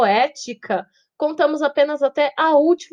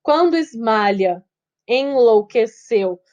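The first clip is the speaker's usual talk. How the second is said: slow verse, vowels joined across words; slow linked scansion; 3 dB louder, slower than usual. Shown as a demonstration. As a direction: draw out the syllables, linking word to word. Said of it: "a gente junta".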